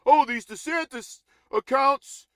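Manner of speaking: high, slow whiny mock voice; mocking Tucker Carlson. Streamer mocking Tucker Carlson, whiny and high. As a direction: drag it out like a bewildered pundit. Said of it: "says Tucker Carlson".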